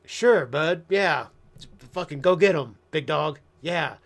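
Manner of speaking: loud, mock-encouraging cheer with a slow drawn-out yeah; sarcastic hype-up. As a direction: egg him on loudly while not meaning a word. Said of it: "I'm like".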